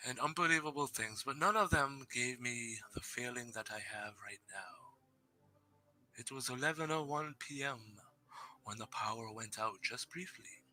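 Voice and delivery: steady, hushed storytelling with whispered moments; spooky story narration. Acted. Streamer reading a viewer's ghost story aloud, hushed and eerie. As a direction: draw the listeners into a creepy tale.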